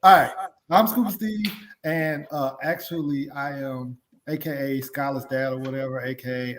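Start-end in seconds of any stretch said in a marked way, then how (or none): 0.0-1.5 louder. Pretend. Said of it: "Do it better than that".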